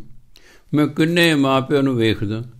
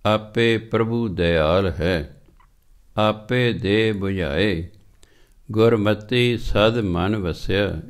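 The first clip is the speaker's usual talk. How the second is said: slow, measured chanting of the verse; scripture recitation; much slower than usual. Acted. Preacher reciting Sri Raag verse to the sangat, slow chant. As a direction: draw out each word of gurbani.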